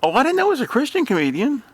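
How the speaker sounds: high, fast sarcastic surprise; hammed-up fake astonishment; mock surprise. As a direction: feign amazement sarcastically.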